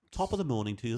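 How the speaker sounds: mock Irish greeting; Irish accent. Shown as a demonstration. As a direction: put on a light Irish lilt. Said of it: "No, that's Irish".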